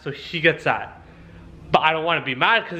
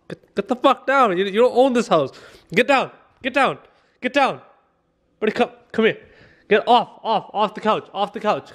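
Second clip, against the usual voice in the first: repeated firm commands, higher voice; scolding; 5 semitones higher than usual. Real, not acted. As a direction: order the dog down, pitched up. Ordering dog down.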